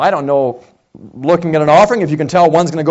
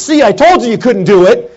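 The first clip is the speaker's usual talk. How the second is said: gloating friend; 4 semitones higher, 5 dB louder than usual. Retold or imitated. Friend gloats after failed jump.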